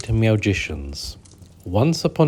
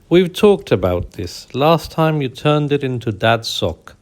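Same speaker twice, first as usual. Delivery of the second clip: higher, louder scolding cat voice; exasperated lady cat; 5 semitones higher, 4 dB louder than usual. Acted. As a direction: scold him like you've heard it all before.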